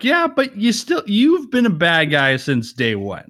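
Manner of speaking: high, doubtful yeah-but; mock skeptical reply; skeptical retort. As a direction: push back in disbelief. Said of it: "And I'm like".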